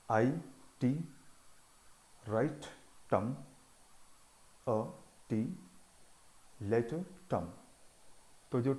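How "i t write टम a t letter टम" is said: each syllable called ti or tum; ti-tum rhythm. Shown as a demonstration. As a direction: beat out the weak and strong syllables by name. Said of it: "टम ऐसा syllable है जहाँ stress देना है".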